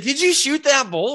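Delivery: lightly voiced eager buddy; retold friend calling back, excited; excited question. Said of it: "he's like".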